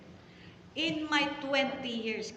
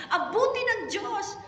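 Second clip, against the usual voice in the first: mock pastor's praise; 9 semitones higher, 5 dB louder than usual. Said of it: "Ganun siya".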